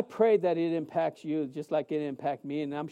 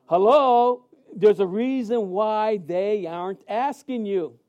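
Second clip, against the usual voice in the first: mock wake-up call; 5 dB louder, slower than usual. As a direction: shout at yourself to wake up. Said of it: "I had to slap my face like this".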